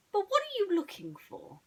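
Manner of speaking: high, loud curious detective; Basil voice. Acted. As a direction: demand it eagerly. Basil questions the boy.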